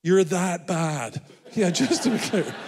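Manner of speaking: teasing through laughter; words broken up by real laughter; laughing. Real, not acted. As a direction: crack up at your own joke while talking. Laughs at own missionary joke.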